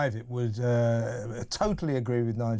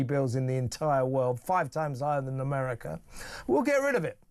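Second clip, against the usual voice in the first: mock Farage promise. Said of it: "Nigel Farage and his gang have said".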